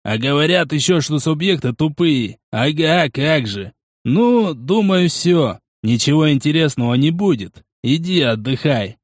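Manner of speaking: lightly voiced, unhurried veteran watchman; musing Porokh. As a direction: reason it out as the seasoned fighter.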